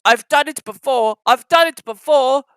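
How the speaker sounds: lightly voiced old engine puffing encouragement; puffing Edward. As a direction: reassure while straining uphill. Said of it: "puffed Edward".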